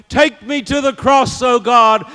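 fervent plea. Acted. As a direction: cry it out high, pleading from the pulpit. Same appeal repeated as fervent cry.

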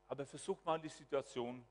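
ordinary talk, nothing marked

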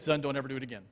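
low, soft retold admonition; subdued parental warning. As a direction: drop pitch and volume as the chastened parent. Parents' subdued warning after realization.

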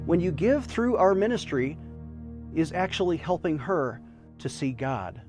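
charity appeal. Acted. Fundraising appeal over music.

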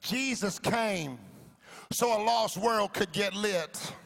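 slow, deliberate preaching repeat; slow emphatic repeat. Shown as a demonstration. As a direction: spell it out slowly. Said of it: "I'm gonna say that again".

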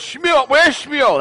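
high, slow, drawn-out call for someone. Acted. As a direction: act a father calling out for his son. Joke father calls for his son.

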